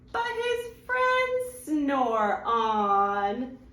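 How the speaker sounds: lively storybook read-aloud; reading to children. Acted. Mom reads a rhyming picture book to her little ones, animated. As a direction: read it like bedtime storytime for kids.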